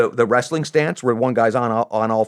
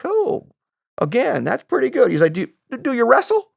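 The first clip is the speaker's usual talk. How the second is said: Southern clerk; 13 semitones higher than usual. Retold or imitated.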